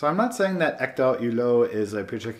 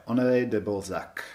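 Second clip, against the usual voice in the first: lightly hammed-up French accent; terrible French accent. Shown as a demonstration. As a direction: attempt the author's name in a bad French accent. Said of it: "my terrible French accent".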